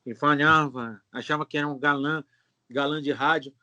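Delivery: put-on announcer voice with a nasal speech impediment; nasal-speaking would-be radio heartthrob; lightly honked, self-important announcer talk; Epifanho. Shown as a demonstration. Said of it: "ele fazia uma voz impostada".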